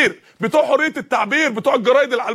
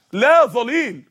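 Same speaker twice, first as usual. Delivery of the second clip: Quran recitation; much slower than usual. Shown as a demonstration. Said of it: "لا ظليل يعني ما بيحميش".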